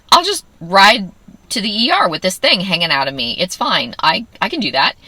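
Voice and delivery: sarcastic. Retold or imitated. Ironic acceptance, stuck catheter.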